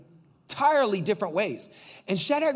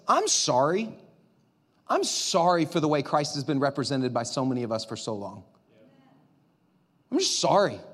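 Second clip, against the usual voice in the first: lower, earnest apology; sincere apology; 6 semitones lower than usual. Real, not acted. Pastor apologising on behalf of the church, sincere. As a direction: say sorry gently and mean it.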